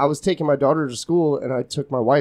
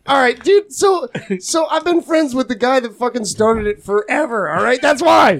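retold indignant comeback; 7 semitones higher than usual. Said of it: "and I was like".

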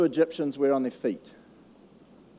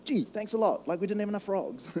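higher, mock-grateful sarcasm; sarcastic thanks; 5 semitones higher, 4 dB quieter than usual. Preacher mocking the magicians' frogs, light sarcasm. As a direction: roll your eyes as you thank them. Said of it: "which I'd be like".

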